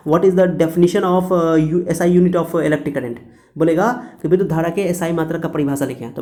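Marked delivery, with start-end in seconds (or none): 0.1-3.2 slow, deliberate reading of the question; reading exam question. Retold or imitated. Teacher reads out the exam question to students, slow and deliberate. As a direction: read it out slowly like a question paper. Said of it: "exam पूछता है".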